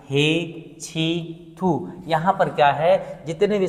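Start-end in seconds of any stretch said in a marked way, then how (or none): 0.1-1.9 drawn-out disgusted ugh; mock revulsion. Shown as a demonstration. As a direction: spit out the disgust. Disgust interjection demo.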